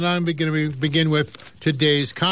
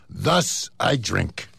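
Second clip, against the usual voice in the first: lower, deadpan rat punchline; gloomy rat; 8 semitones lower, much slower than usual. Acted. Rat telling goat his bleak philosophy, low and glum.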